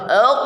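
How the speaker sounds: ek dengan suara dikumpulkan di mulut; qaf tebal. Shown as a demonstration. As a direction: qaf berat dan tebal. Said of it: "kumpulkan gitu ya". (ek tebal)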